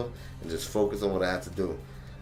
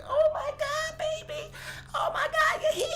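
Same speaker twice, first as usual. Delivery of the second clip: put-on girlfriend's surprise.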